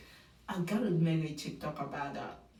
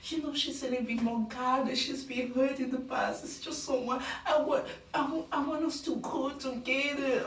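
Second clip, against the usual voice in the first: higher, fond gushing; imitating Grant; 5 semitones higher than usual. Host voicing Grant praising Juliana, higher fond. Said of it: "tell us about Juliana".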